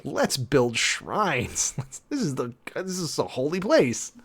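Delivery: imitating an eager disciple, words stretched then rising; mock enthusiasm. Peter eager to build shrines at a holy place, mock-enthusiastic. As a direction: play up a naive burst of enthusiasm. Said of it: "sort of enthusiastically is like".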